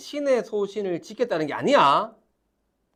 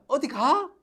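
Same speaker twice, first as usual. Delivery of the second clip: 어디 raised and stressed; 9 semitones higher than usual. Shown as a demonstration. 선생님이 학생들에게 시범: 어디를 높여 묻기. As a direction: push 어디 high in the question. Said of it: "이런 식으로".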